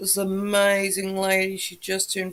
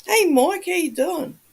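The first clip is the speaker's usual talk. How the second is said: high, loud cheery hello; excited greeting; 9 semitones higher, 4 dB louder than usual. Real, not acted. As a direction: greet him with delight. Greets viewer in chat.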